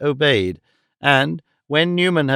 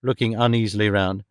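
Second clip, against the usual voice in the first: ordinary delivery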